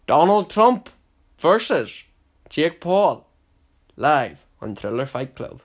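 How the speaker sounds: high and loud announcer call, settling at the end; fight announcer. Pretend. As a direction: hype it like a boxing MC.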